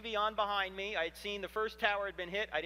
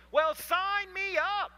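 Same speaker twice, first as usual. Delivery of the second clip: sarcastic; 12 semitones higher, 7 dB louder, much slower than usual. Acted. Mocking disciples' pointless new religion.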